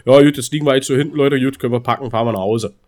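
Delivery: quick, resigned coach's team talk; halftime pep speech. Retold or imitated. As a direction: rattle off a half-hearted halftime talk. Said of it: "er sagt so".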